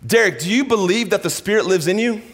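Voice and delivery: God calling him out by name; God speaking. Retold or imitated. God confronting Derek in the aisle, high and searching. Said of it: "this moment hit me".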